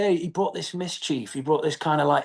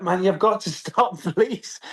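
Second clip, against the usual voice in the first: higher-pitched mock pleading; exasperated plea; 4 semitones higher, slower than usual. Actor begging his castmate to stop, exasperated plea. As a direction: beg through a laugh, half joking.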